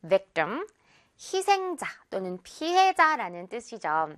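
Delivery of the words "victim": victim with a weak, tense 뜸 at the end; victim, second syllable reduced to 뜸; unstressed ending. Shown as a demonstration. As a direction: say victim with no air on the T. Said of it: "워낙 강세가 없다 보니까요".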